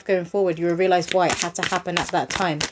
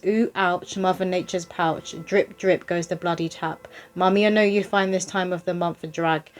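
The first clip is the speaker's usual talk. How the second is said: poem reading. Acted. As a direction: read the rhyme out line by line, unhurried. Reads a poem aloud.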